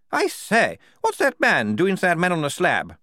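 high, loud, indignant toff; a shocked officer pointing at the slab; startled officer. A narrator's reading. The officer seeing Igorina at work, high and shocked.

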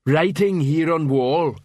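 slow, simple troll voice; a big dim troll, slow and heavy. Acted.

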